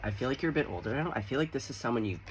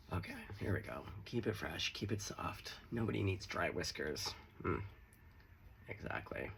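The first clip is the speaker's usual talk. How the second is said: soft murmur; 4 semitones lower, 8 dB quieter than usual. Real, not acted. Softly applying beard balm.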